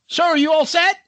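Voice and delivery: chirpy-pitched mimic of a park attendant; imitated helpful attendant. Lady comes over to the stuck rider, imitated helpful attendant.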